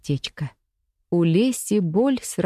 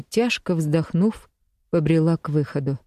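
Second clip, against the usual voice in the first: plain reading voice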